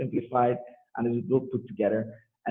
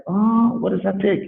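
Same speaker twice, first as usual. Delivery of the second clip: surprised; 7 semitones higher, slower than usual. Retold or imitated. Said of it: "And it's like".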